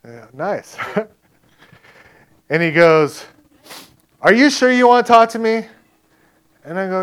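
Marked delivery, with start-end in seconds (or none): 4.2-5.7 retold challenge. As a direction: imitate a man daring you to keep talking. Rough man challenges the preacher.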